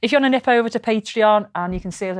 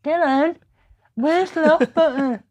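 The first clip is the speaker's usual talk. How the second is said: higher, slow, flustered call for help; flustered plea; 8 semitones higher, slower than usual. Retold or imitated. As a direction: ask helplessly, lost with the camera. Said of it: "and I'm going".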